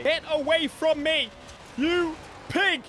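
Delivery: high, loud repulsed yell; mock disgusted shout. Streamer recoiling from the engine sound, in a high loud mock yell. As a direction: shove it away like a hammed-up insult.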